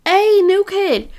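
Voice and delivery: loud, high, drawn-out hail; calling out. Acted. Jax swaggers up to the new kid, calling out. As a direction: call across to the new kid slowly.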